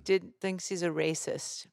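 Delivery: slow imitation of a club boss; lightly voiced boss, drawn out; Jamie impression. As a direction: finish the boss's complaint slowly. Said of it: "I used to love when he would go".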